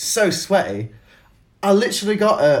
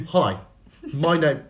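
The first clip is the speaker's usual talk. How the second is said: attempted Michael Caine; 3 semitones lower, slower than usual. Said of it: "like, a Michael Caine".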